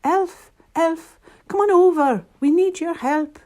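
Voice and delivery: high, loud urgent call; crying out. A narrator's reading. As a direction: summon help down the phone. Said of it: "got onto the elf phone and cried".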